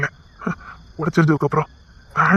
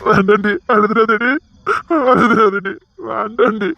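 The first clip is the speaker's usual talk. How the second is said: tearful pleading; 3 semitones higher, slower than usual. Acted. Father begging her not cry.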